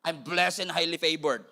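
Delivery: slow sassy accented boast; accent and attitude. Shown as a demonstration. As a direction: say it slowly with attitude and an eyebrow. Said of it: "With an accent, with an attitude, with an eyebrow".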